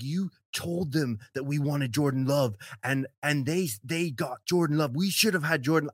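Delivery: a hint of an aggrieved teammate, in earnest; mock serious accusation. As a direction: play his grievance straight, no laughing. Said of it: "super serious".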